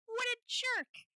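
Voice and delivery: bigger, dragged-out indignant cry; drawn-out outrage. Real, not acted. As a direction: lean hard into each word. Repeated, drawn out.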